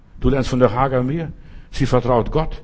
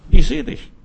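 higher, louder cry of I see you; emphatic call; 10 semitones higher, 6 dB louder than usual. Acted. God calling to Hagar, a high ringing cry. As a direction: proclaim it, ringing out. God's call repeated, climax.

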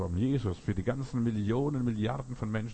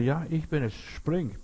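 higher-pitched acted call from below; father calling back; 6 semitones higher, slower than usual. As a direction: lightly play a father urging a jump. Father calls back to his son.

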